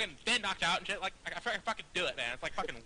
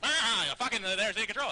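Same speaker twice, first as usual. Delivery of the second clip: mock rival player; 3 semitones higher, 5 dB louder than usual. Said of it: "you'd, you'd".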